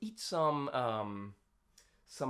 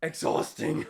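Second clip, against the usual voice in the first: out of breath; 8 semitones lower, 12 dB quieter, faster than usual. Real, not acted. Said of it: "It's quite exhausting".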